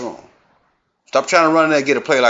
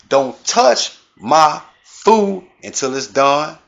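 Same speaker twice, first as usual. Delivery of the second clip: Granny voice; 2 semitones higher, slower than usual. Pretend. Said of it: "This from Granny".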